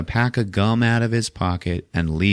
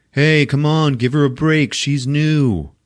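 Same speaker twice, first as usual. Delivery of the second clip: protesting defence; 6 semitones higher, slower than usual. Retold or imitated. Acted defence of the new patient.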